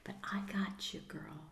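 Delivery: put-on soft, comforting whisper to a child; tender whisper. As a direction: whisper reassurance to your scared inner child. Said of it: "because you said".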